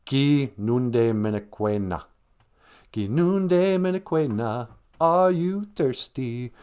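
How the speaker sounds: "Gi nunde minekwe na" slow with the na added; slow question demo. Shown as a demonstration. To the kids, teaching how to ask if someone's thirsty. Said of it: "So you go".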